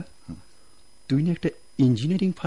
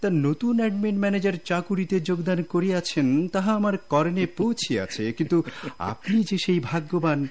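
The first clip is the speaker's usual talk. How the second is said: mock courtly; 4 semitones higher than usual. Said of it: "তোর college জীবনের acting".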